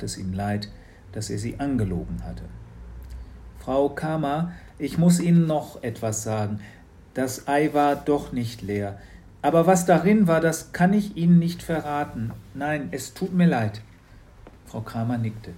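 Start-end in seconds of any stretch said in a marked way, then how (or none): 3.6-13.8 a hint of an earnest boy; slightly higher, sincere boy; Matz confessing, lightly voiced. (leicht gesprochener, ehrlicher Junge)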